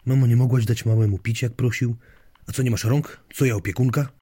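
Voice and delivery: a touch of family squabble, pitch lifted; irritated bickering. Acted. Daughter scolds grandma, who retorts she's no babysitter, mildly irritated.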